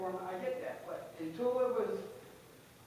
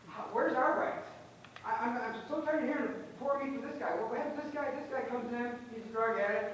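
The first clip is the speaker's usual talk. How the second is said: raised, upset pleading; emotional; 2 semitones higher than usual. Real, not acted. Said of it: "I apologize if I'm a little emotional".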